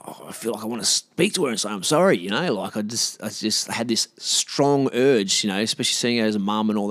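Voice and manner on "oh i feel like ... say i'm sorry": breathy whisper to himself; hushed private thought; whispered inner thought. Retold or imitated. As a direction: whisper it like a secret wish. Inner thought, wanting to apologise.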